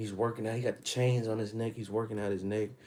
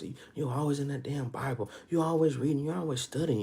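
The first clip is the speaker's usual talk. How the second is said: higher-pitched imitation of scoffers; mildly mocking complaint, pitched up; mock nagging; 5 semitones higher than usual. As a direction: lightly mimic a nagging critic. Voices critics mocking a Bible student.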